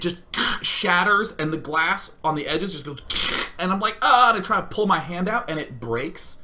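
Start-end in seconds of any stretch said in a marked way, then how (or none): 4.0-4.3 pained yelp. Retold or imitated. Glass breaks round his hand.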